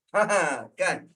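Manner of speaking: ordinary talk, nothing marked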